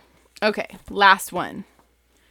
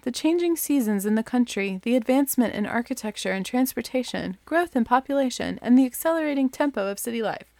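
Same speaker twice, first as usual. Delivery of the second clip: mock dull back-cover read, faster at the end; boring blurb read; 4 semitones higher than usual. Shown as a demonstration. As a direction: read it like a dreary book jacket. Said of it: "the most boring possible way to tell you".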